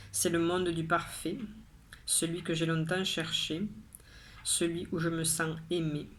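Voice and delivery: measured poem recital with pauses between lines; poem reading. Acted. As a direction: recite each line evenly, pausing after it. Reads the poem third time.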